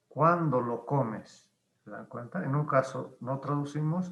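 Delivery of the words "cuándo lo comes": slow, clear teacher read; slow model sentence. Shown as a demonstration. Teacher modelling the translation, slow and clear. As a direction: spell it out slowly for the class. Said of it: "se traduce como lo".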